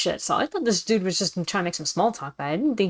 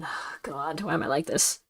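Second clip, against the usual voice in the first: soft, despairing; exasperated groan; 6 dB quieter than usual. Real, not acted. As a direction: groan it at yourself. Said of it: "self-exasperation".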